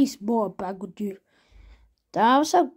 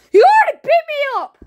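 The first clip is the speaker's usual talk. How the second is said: high fast complaint; 13 semitones higher, 9 dB louder, faster than usual. Acted. Complaining after a beating.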